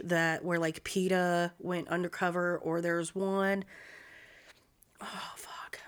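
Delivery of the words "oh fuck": breathy unvoiced whisper. Real, not acted. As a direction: whisper to yourself. Whispered frustration.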